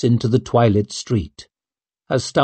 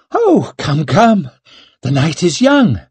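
airy dismissal; 6 semitones higher, 3 dB louder than usual. A narrator's reading. Brushing off worried maid.

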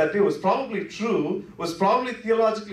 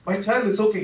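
gentle reassurance; 4 semitones higher than usual. Retold or imitated. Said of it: "he's saying".

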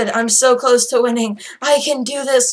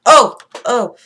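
freaking out; 6 dB louder than usual. Real, not acted. Player jumpy near the enemy, freaking out. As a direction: yelp in real alarm. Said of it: "I am freaking out here".

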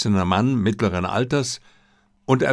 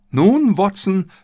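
slow, raised and drawn-out, lightly voiced; eager Holmes; 10 semitones higher, 5 dB louder, slower than usual. Holmes turning eagerly to Watson, raised and drawn out. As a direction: lean in and ask with relish.

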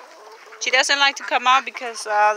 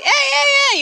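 shooing shout; 14 semitones higher, 3 dB louder than usual. Real, not acted. Shooing an animal off.

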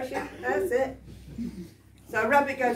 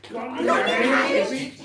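higher, louder, slow cheeky bunny line; rabbit chorus demo; 4 semitones higher, 7 dB louder than usual. Shown as a demonstration. Storyteller teaching the audience the chorus, slow high rabbit squeak. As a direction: lead the crowd in the bunny's squeak. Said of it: "We practice that".

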